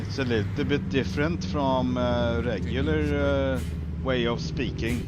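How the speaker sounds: lightly hammed Swedish accent; put-on Swedish accent. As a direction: talk like a Swede as a joke. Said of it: "I better talk like this".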